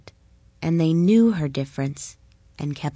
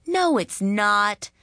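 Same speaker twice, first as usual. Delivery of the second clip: a mildly raised group protest; mild indignant outcry from the children; children crying out; 3 semitones higher, slower than usual. Acted. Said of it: "the children cried".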